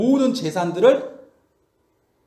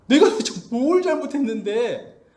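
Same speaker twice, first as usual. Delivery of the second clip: protesting. Retold or imitated. Job disputing what God has done to him, protesting. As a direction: argue back as if wronged. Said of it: "그리고 따지기 시작해요".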